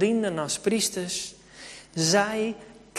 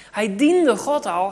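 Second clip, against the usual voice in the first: slow and louder, leaning hard on "diende"; emphatic slow stress; 2 semitones higher, 7 dB louder, slower than usual. Acted. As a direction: land "diende" heavily, word by word. Repeated key sentence. (nadruk op "diende", langzaam en luid)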